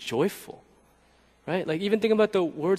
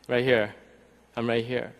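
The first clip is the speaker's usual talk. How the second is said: soft, low, gently amused reassurance; smiling; 4 semitones lower, 4 dB quieter than usual. Acted. Imagined Jesus gently revealing himself to weeping Mary Magdalene, smiling. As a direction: say it quietly through a smile. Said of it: "like, smiling".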